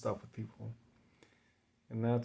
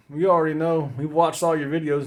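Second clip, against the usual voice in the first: louder, teasing viewers' chorus; mock viewers calling back; 4 semitones higher, 8 dB louder than usual. Viewers teasing the drunk vlogger, loud and smug. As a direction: answer back like a know-it-all crowd.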